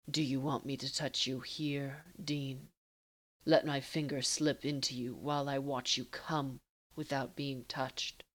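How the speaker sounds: low and unhurried, taunting a lover; teasing Castiel. Acted.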